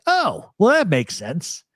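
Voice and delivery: high "oh" settling into mild agreement; imitated sudden turnaround. Retelling a friend hearing it's him, suddenly agreeable. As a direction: switch abruptly to easy acceptance, as the friend did. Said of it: "All of a sudden his demeanor changes".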